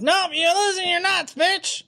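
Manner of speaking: high mocking yell; mock shout. Flat earthers gloating at him in a high mocking yell. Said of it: "flat earthers are gonna bomb".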